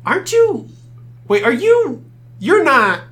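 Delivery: high, loud, startled recognition; excited. Acted. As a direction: gasp it out in disbelief. Elf recognising Cypress, excited.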